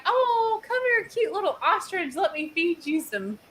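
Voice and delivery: high coaxing coo to a cute animal; cooing sweetly. Retold or imitated. Storyteller coaxing an ostrich to feed, cooing.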